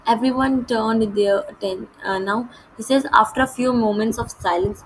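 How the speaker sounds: measured, slow read-aloud of the English text; deliberate storybook narration; slow story reading. A narrator's reading. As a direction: read each phrase out slowly and clearly, like a lesson passage.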